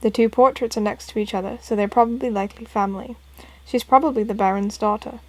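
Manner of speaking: understated put-on British accent. Professor Layton explaining portraits to Luke, mild British accent. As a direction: reason it out with a light British lilt. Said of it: "Professor Layton got a British accent".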